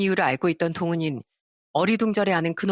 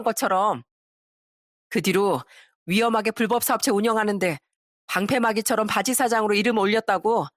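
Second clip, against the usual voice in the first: lightly acted knowing taunt; pointed storyteller's dialogue, a touch smug; mocking exposer. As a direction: reveal the dirty secret with relish. Acts out scornful confrontation.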